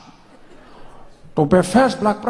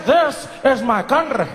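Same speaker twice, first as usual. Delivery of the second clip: speech rehearsal; 3 semitones higher than usual. Shown as a demonstration.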